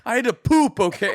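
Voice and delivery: high-pitched mock indignation; angry imitation. Correcting the quote of the brother, mock angry. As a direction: snap it defensively, imitating an angry man. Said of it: "he was, like, angry".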